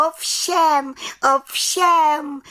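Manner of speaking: high, quick eager "Ovšem, ovšem"; eager cry. Acted. Little witch calls out to the council, high and eager. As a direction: burst out proudly. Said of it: "volala malá čarodějnice".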